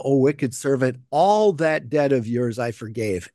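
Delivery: all gets the weight; stress on all. Retold or imitated. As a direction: lean on the word all. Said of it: "the emphasis is on the word all".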